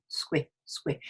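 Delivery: quiet "Squid", clipped to its opening sounds, no d; bunched-lip cluster. Shown as a demonstration. Teacher shows the mouth bunching up, isolated syllable. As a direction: say "squid" as a bare skwi. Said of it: "It sort of bunches up".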